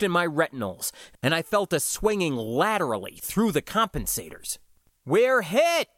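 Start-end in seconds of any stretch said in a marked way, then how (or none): 5.0-5.9 high, loud alarmed shout. A narrator's reading. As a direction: yell it as the ship is rocked. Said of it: "I shouted".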